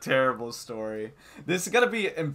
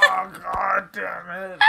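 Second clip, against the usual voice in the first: slow, raised, hammed-up wail; anguished outburst; 8 semitones higher, 4 dB louder, slower than usual. Retelling regret at her being nice, wailed. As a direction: cry out in mock agony. Acting out regret at classmate's kindness.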